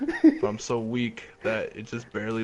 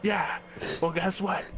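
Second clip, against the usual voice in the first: raised, hammed-up menace with laughter breaking in; mock threat; 9 semitones higher, 7 dB louder than usual. Rival threatening his revived friend, hammed-up anger. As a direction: build from firm to loud and high.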